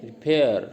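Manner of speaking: रिपेयर with a quick रि and strong पेयर; stress on पेयर. Shown as a demonstration. Teacher demonstrating stress in रिपेयर, second syllable पेयर stressed. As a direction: punch पेयर in रिपेयर, falling at the end. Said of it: "रिपेयर में भी stress देते हैं पेयर पे".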